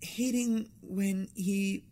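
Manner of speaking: put-on airy Valley Girl, stretched vowels. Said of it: "I got my Valley Girl voice".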